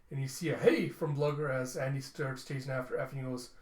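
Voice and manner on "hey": loud, high shout of protest; sudden yell. Acted. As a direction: call him back with a bark. Blugger yells as Andy runs.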